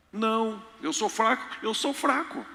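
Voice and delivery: sulky self-pity, hammed up; mock whiny weakness. Mocking believer claiming weakness. (choramingo fingido de fraco)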